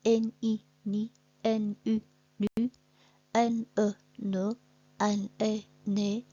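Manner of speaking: teacher sounding out syllables; syllable drill. Shown as a demonstration. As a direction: sound out each syllable for pupils. Reading syllables aloud slowly.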